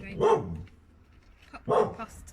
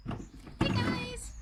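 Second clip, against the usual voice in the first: Hey guys!; 6 dB louder than usual. Real, not acted. Greeting camera in high voice.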